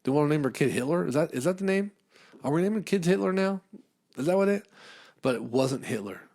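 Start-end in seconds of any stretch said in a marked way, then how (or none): 0.0-4.7 higher, disbelieving questions; asking in mock shock; pitched-up outraged disbelief; incredulous. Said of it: "I was thinking".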